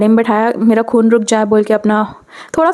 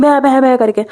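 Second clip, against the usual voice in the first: imitated sobbing. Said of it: "And I was crying".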